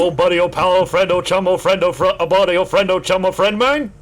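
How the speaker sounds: sing-song repeated endearments; a lightly voiced chattering skeleton; skeleton catchphrase. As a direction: lilt through the buddy-pal chain. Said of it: "his needle's stuck".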